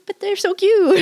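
high-pitched adoring protest through laughter; laughing gush. Acted. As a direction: gush over the dogs, breaking into a laugh. Gushes over dogs, acted reply.

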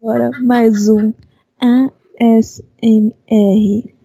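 mock sensual ASMR voice; sultry narrator. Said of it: "com essa voz sensual".

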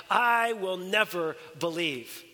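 slow, deliberate vow of disbelief; emphatic refusal. Acted. Thomas answers the disciples who saw the Lord, slow and emphatic. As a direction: weigh out each word of a firm refusal. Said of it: "why is Thomas so emphatic".

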